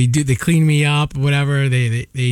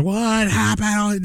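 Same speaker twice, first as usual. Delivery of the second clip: retold yell; 7 semitones higher, much slower than usual. Retelling his boss walking in at work, mock yelling. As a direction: imitate an alarmed boss yelling, stretched out. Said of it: "my boss comes in yelling".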